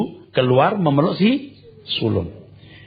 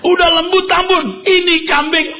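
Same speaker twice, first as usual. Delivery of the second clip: mock outrage at the unfairness; angry elder son. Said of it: "Ini marah sekali loh". (anak sulung protes marah, nada tinggi)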